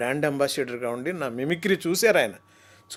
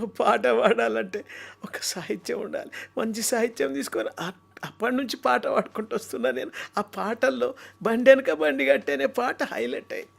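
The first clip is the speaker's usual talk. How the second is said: higher, folksy talk; a folk singer speaking impression; 5 semitones higher than usual. Mimic doing how a folk singer talks. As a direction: chat like the old balladeer. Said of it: "అట్లా మాట్లాడతారు ఆయన".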